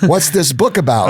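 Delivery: the wife asks her question nicely, with a hint of mimicry; rabbi's wife. At a Shabbat dinner, the rabbi's wife asks about the book, lightly voiced. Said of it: "the rabbi's wife goes".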